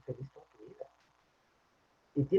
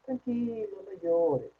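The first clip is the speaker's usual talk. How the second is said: mock soothing; 4 semitones higher, much slower than usual. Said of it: "¿qué me dicen?".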